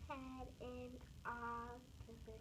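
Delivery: "octopus" with a long first vowel; stretched ah sound. Shown as a demonstration. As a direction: echo it, holding the "ah" opening "octopus". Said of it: "good job of stretching out".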